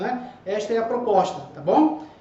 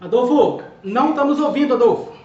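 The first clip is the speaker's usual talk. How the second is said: calling out; 4 dB louder than usual. Real, not acted. Can't hear Adolfo on call.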